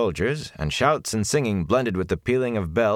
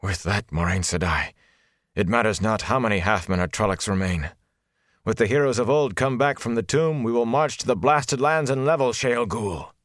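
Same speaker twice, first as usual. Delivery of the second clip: higher and fiercer toward the end; rising eagerness; 4 semitones higher than usual. Acted. Agelmar sees the Horn and longs for war, rising excitement. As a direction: lord fired up at the thought of war.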